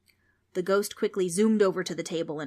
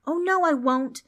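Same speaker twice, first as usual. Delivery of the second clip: put-on brave but scared girl; 9 semitones higher, 8 dB louder than usual. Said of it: "with all the courage she had left".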